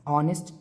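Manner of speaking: ऑनेस्ट with the h silent, starting on an O sound. Shown as a demonstration. Teacher shows students ऑनेस्ट begins with an O sound, h silent. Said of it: "एच silent होता है".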